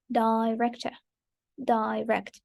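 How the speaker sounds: "Director" and "direct" said as separate careful models; repeat-after-me model. Shown as a demonstration. Teacher asking learners to repeat after, careful model of "Director, direct". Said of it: "let's repeat after me".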